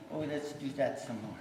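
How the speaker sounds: soft, calm voicing of the horse. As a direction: let the horse sound content. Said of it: "very calmly saying".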